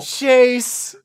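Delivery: loud, high shout of Chase; shouted name. Real, not acted. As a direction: call him out sharply. Calling out a friend.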